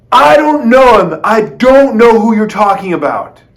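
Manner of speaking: high, loud, heated protest; cursing denial. Acted. Peter cursing at his accusers, high and loud. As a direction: swear you never met him. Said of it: "he even curses and says".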